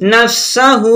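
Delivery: "নাফসাহু" with the final "হু" stretched long; drawn-out ending. Shown as a demonstration. Teacher showing the stretch, final "হু" drawn out. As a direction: hold the last vowel of "নাফসাহু". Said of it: "এখানে এক আলি পরিমাণ টানতে হবে".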